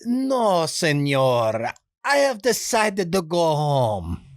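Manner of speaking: put-on high, slow pleading Spanish-accented plea; a nice guy begging off in a thick Spanish accent; hint of dubbed Spanish accent; Benito voice. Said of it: "back to the voice".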